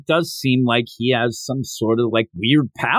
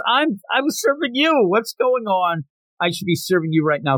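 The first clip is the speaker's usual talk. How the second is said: higher, flustered protest that speeds up at the end; a flustered girl, voice pitched up; confused protest; 5 semitones higher than usual. Retold or imitated. Girl protesting she should be the server, flustered and high. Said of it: "And she says".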